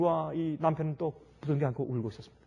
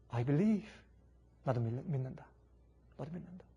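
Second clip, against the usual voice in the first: trembling voice; 3 semitones lower, slower than usual. Acted. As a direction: let the voice tremble, barely holding it. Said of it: "떨리는 음성으로".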